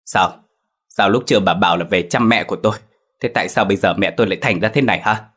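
fast, bitter accusing questions; husband grilling his wife, fast and heated; nearly shouting. Acted. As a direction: hurl the questions at her in bitter anger. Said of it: "mà nói như quát".

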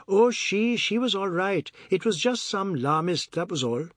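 lightly voiced man brushing off a question; evasive Biswas. Biswas drops his excuse.

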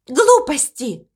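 slow, cross dismissal; angry. Acted. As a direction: stamp it out crossly. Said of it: "сердито возразила морковка". (сердито и медленно)

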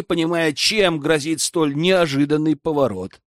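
ordinary delivery, nothing marked

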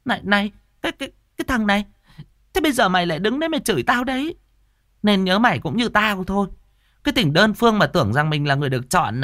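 high, fast, shrill tirade; furious scolding. Acted. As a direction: stammer with rage then rattle her off. Tư Hiền cursing Châu.

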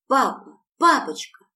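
put-on high, loud excited child's cry; little Yulechka shouting to her father, high and loud. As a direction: squeal it like a little girl running to dad. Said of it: "закричала Юлечка".

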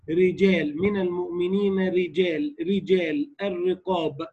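slow recitation, thin light ر in رجال. Shown as a demonstration. Teacher reciting examples of the rule, light ra in رجال. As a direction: keep the ر of رجال and الرقاب light. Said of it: "الراء مكسورة فلا خلاف في تركها".

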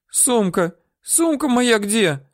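put-on high, anxious old-woman voice; woman worrying about her bag; worried. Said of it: "волновалась баба".

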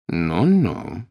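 mild indulgent teacher tone; like praising a student's homework; approving teacher. A narrator's reading. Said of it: "таким тоном, точно Малфой показывает ему самостоятельную работу".

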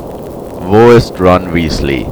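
very slow, toneless changed voice; the interrogator asks a third time, without expression; expressionless. Acted. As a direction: drag each word out coldly. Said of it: "fragte der Mann noch immer völlig ausdruckslos".

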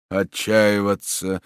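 very slow, absent repetition; dazed, toneless echo; mechanical repeat. Acted. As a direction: echo the word without taking it in. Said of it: "машинально повторил маршал".

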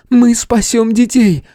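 high, slowed calling voice; urgent cry. Acted. Kitsune calls out about saving children, urgent.

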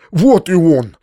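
calls out loudly on seeing him; a glad cry across the yard; excited shout of greeting. Acted. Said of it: "закричал дядя".

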